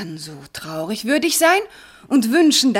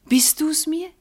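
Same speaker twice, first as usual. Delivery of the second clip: slow awed whisper; 6 semitones higher, slower than usual. Acted. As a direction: ask it barely breathing. Alkmene asks again in awe.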